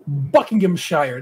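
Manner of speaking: Buckinghamshire sounded out slowly, syllable by syllable; slow place name. Shown as a demonstration. Host sounding out a long English place name, slow. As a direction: take Buckinghamshire nice and slow. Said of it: "that's a long word".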